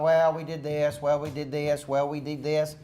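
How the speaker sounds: droning list of numbers; mock number recital. Coach mocking a team that just recites numbers. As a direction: rattle off the figures flatly. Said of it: "just spit out numbers to me".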